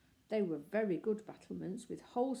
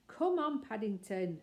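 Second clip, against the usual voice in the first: bright raised call to wake him; 2 semitones higher, 3 dB louder than usual. Acted. Judy wakes Paddington for lunch, raised call. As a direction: rouse a sleeping bear.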